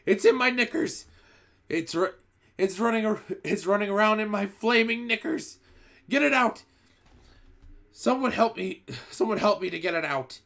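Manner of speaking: very high, loud frantic screaming. A narrator's reading. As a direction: shriek in panic, tripping over the words. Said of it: "the man was screaming".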